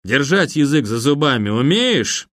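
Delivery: put-on slurring drunk menace; lightly voiced drunk thug; drunken voice. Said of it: "пьяным голосом".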